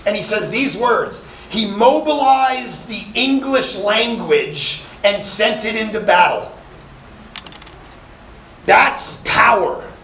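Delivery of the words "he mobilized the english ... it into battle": slow, weighty movie-line delivery; slow dramatic quote. Retold or imitated. Quoting the film's last line to the congregation, slow and grand. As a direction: savour each word like a closing line.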